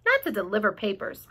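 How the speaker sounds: lightly voiced grumbling rat. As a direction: complain like a put-upon rat. Rat complaining.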